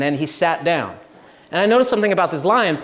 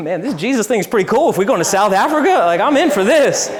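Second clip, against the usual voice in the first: excited; 4 semitones higher, 4 dB louder than usual. Retold or imitated. Retelling his excitement about the trip.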